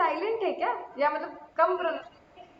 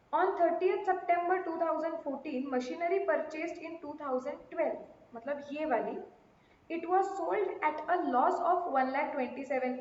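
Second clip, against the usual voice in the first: reading a question; much slower than usual. Acted. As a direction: read the sum out slowly for class. Reads out the question. (धीमी आवाज़ में प्रश्न पढ़ना)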